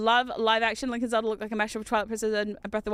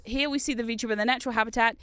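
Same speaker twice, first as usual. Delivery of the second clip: lightly voiced guide showing visitors round; mock tour guide. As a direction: present it like a tour, drawing out key phrases. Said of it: "They're like VTuber tours".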